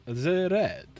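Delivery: slow, drawn-out announcer voice for Magnus the Red; a hint of a grand announcer. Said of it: "Don't know why I do the voice".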